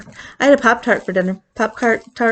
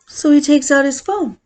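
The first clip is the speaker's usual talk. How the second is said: usual speaking voice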